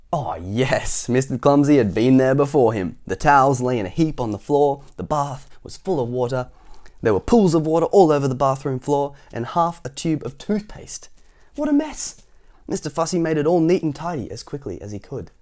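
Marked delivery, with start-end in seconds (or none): 1.1-11.1 projected, animated list of the mess; story narration. A narrator's reading. Reads story to children. 11.6-12.2 high-pitched outburst; dismayed exclamation. A narrator's reading. Narrator exclaims at the mess.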